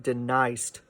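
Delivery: "deniest" squashed into two syllables; pron: "deniest" elided. Shown as a demonstration. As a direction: say "deniest" mushed together. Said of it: "You have to kind of mush that together".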